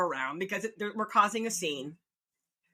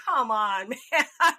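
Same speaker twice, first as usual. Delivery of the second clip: laughing lament; 3 semitones higher, 5 dB louder, slower than usual. Retold or imitated. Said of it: "I'm like".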